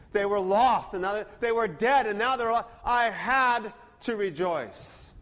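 father insisting he had to rejoice; joyful father. Retold or imitated. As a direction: let the joy burst out. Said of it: "We had to. I had to".

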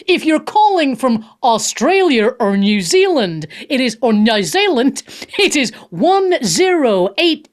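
slow, deliberate reading of the phone numbers in a mock announcer voice; hamming it up like a station announcer; put-on announcer voice. Radio host reading out call-in numbers, in a slow put-on announcer voice. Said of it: "I'll do it in the voice".

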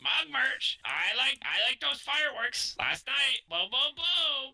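high squawky parrot voice. Acted. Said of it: "He sounds like a parrot".

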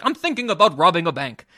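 a faint, badly faked English accent; lightly put-on English accent, barely there. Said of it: "That was a terrible English accent".

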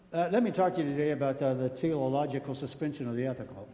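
low mock-scholarly lecture; over-your-head teacher. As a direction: intone it like a dry academic lecturer. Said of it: "they're so far above your head".

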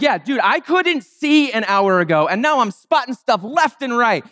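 playful disbelieving retort; mock incredulous protest. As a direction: protest as if it were obvious. Healed man protesting to the quibblers.

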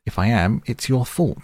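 high, loud, angry retort. A narrator's reading. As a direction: snap back in anger. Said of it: "There's no need to get angry".

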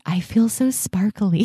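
light imitation of a sparkly client; bubbly client quote. Quoting client's bubbly words.

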